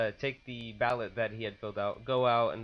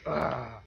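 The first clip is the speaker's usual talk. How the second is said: short imitated grunt of anger; mad groan; 2 semitones higher than usual. Poll worker imitating the mad voter, angry groan. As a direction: imitate a fuming "ugh". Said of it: "He's all mad".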